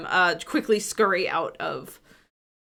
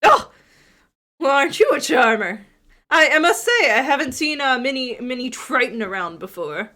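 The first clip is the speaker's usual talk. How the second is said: half-orc woman voice; 3 semitones higher, 3 dB louder than usual. Acted. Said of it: "half-orc flirts with Mira".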